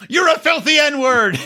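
high, slow, hammed-up line; mock obliging insult. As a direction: deliver it like a reluctant actor.

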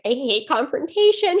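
mild mock upset; imitating upset friend. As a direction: retell a sweet friend's tearful protest, no real crying. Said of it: "my friend was crying".

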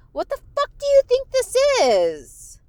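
high, loud, indignant yell at listeners; exasperated outburst. Real, not acted. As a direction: let it burst out in disbelief. Ranting at non-paying listeners.

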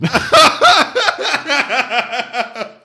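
long, high-pitched burst of laughter; real helpless laughing fit; loud high laugh. Real, not acted. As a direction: crack up loudly at your own story. Laughing at own forgetful answer.

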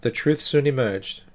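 steady, somber storytelling voice; story narration. A narrator's reading. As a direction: tell it like a creepy tale. Narrates the true ghost story.

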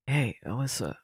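soft, slow wheedling plea; quiet pleading. Acted. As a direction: beg sheepishly under your breath. Student begging to copy homework.

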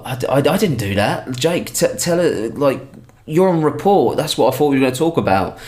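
high-pitched, panicky protest; flustered teacher. Retold or imitated. Teacher pleading with Jake, high and panicked. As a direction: squeak out a frantic denial.

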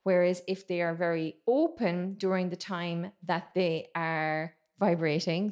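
ordinary talk

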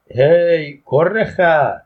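loud, high-pitched rough summons; calling out. A narrator's reading. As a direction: yell an insult to summon someone. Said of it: "و صدام زد". (با داد صدا زدن)

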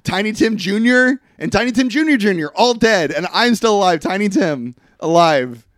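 weary immortal lament. Pretend. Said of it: "he's like".

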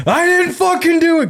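squeaky mock protest; high panicked denial. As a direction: act out defending yourself in panic. Protesting to angry cousin.

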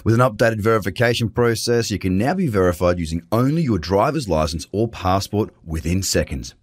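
smooth sponsor read. Acted. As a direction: read it like a radio ad.

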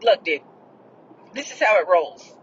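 laying down the law, mildly; firm retort. Retold or imitated. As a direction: retell it as a no-nonsense statement of terms. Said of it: "that's how I said it".

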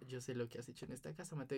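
knowing mom voice. Retold or imitated. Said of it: "no me lo dijo bravo, sino como caga de la risa".

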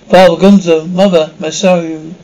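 loud summoning call. Acted. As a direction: call the spirit loudly. Medium calling spirits.

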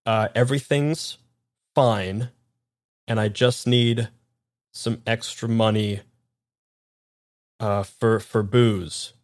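nervous halting stammer; stammering henchman. Acted. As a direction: stumble through the forced lie. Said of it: "Man very quickly kinda goes".

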